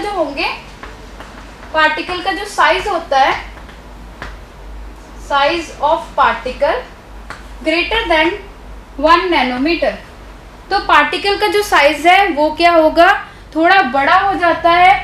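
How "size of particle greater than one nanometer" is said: very slow, word by word, for note taking; slow dictation. Shown as a demonstration. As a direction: spell it out so they can write it down. Teacher dictating notes to class. (नोट्स लिखवाते हुए धीरे धीरे बोलना)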